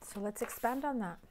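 hoarse, raspy throat. Real, not acted. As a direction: rasp it out, sore throat. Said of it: "forgive the raspy voice".

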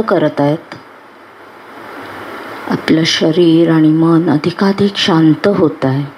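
unhurried meditation guide with long pauses; guided meditation. Acted. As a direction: guide them calmly into relaxation, phrase by phrase.

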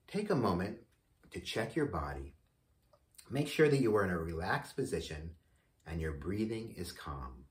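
measured meditation voice with long pauses; guided meditation. Acted. Host leads listeners into meditation on healing, guided meditation voice. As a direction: guide listeners gently, phrase by phrase.

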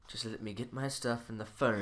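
soft, crying plea; tearful. Acted. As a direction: choke it out through tears. Husband thrown out, weeping.

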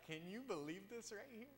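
high-pitched mock disbelief, rising; dumb-look amazement. Preacher voices his dumb look in a photo, high mock amazement. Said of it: "the dumb look on my face is just like".

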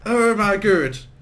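very slow, drawn-out awe; awed delight. Real, not acted. Admiring his new weapon, slow and awestruck. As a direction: savour each word in awe. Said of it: "Ich geil mich ... an dieser Waffe auf".

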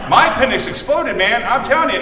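friend's line through laughter; amused retelling; retold, laughing. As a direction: laugh while quoting him.

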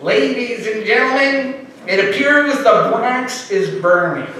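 calm nasal sportscaster voice; lightly voiced nasal announcer; Howard Cosell impression. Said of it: "in his, uh, calm, nasal voice".

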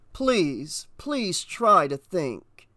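slow, mildly imploring; patient plea. Acted. Burning man coaxing the babbling officer, patient. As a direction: spell it out slowly for someone in shock.

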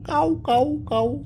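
high cawing crow call. Pretend. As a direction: caw like a crow. Parent answers what the crow says.

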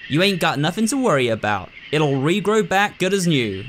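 lightly voiced rural old doctor; a hint of a drawling country doctor. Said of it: "doing her voice".

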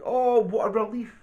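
high storybook exclamation; mock shout. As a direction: exclaim it for a small listener. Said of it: "at the top of his voice he's shouting".

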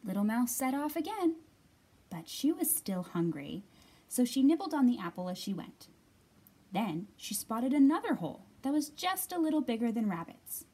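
put-on lively read-aloud for young children; clear, projected picture-book reading; story narration. A narrator's reading.

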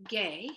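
"gay" spoken slowly with the E Y sound as in they. Shown as a demonstration. Teacher sounding out a syllable for students, slow and clear. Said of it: "so it would be".

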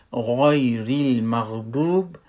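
"غیر المغضوب" with a thick, back gh and rounded vowel; full ghain. Shown as a demonstration. Teacher reciting from Surah Fatiha, full ghain in "غیر المغضوب". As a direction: fill out both gh sounds in "غیر المغضوب". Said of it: "باید متوجه باشیم که غین ما".

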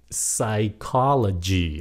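PSYCHOLOGY very slowly, "sai-KOL-o-gy"; silent P. Shown as a demonstration. Teacher models the word, slow PSYCHOLOGY with silent P. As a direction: stretch PSYCHOLOGY out, starting on S. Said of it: "âm P nó câm".

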